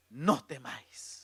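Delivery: Jesus. Acted. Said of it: "Jesús les habló diciendo".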